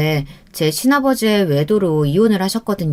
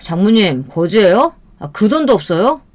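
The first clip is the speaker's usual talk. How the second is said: mocking, taunting questions; snide acted jibe; sarcastic; 4 dB louder than usual. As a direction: needle the mother-in-law with scorn. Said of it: "남편이 어머니에게 비꼬듯이 말을".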